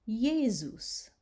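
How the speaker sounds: "Jesus" said slow, yay-zoos, with a buzzing Z; "Jesus" with a Z between the vowels; Z sound. Shown as a demonstration. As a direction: stretch the Z in "Jesus". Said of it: "So you hear the Z".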